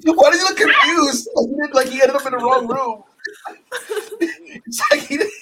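high, loud laughing through the words; can barely speak for laughing; laughing hard at a confused wrestler. Real, not acted. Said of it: "laughing fit".

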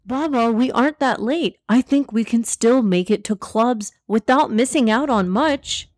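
put-on mildly excited kid, lifted pitch; exclaiming. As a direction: exclaim like an eager child. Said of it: "Zaid looked at the time and exclaimed".

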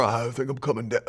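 low, soft imitation of defeated talk; subdued, mocking whine of resignation; mock sickly complainer. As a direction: mimic someone giving in to illness, voice dropped. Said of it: "We go".

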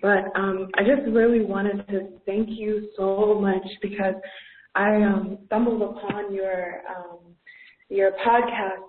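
caller on a poor phone line; thin, echoey call audio; phone speaker. Real, not acted. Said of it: "I apologize if the call quality is poor".

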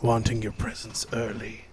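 Santa voice. Pretend. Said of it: "It's Santa Claus".

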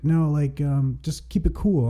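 put-on hint at a Latino accent; imitated Latino accent. Teen driver avoiding insurance, light imitated Latino accent. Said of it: "He kinda had an accent to him".

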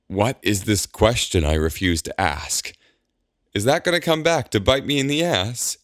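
rising to a high disbelieving squeak; baffled, voice shooting up high; flabbergasted. Acted. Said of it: "Alondra is flabbergasted".

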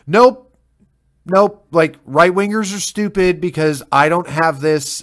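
high, loud mocking nope; mock the librarian brushing it off; hammed-up loud dismissal; dismissive librarian. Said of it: "And he's like".

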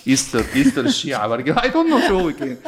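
high, loud laughing disbelief. Real, not acted. Mocking the Easter eggs show to the host, laughing. Joking about the egg stage show.

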